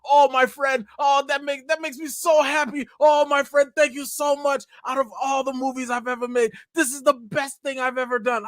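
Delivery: high, gushing imitation of a Spanish-accented director; overjoyed mock Spanish accent, pitched high; thick Spanish accent. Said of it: "he got a thick, uh, Spanish accent".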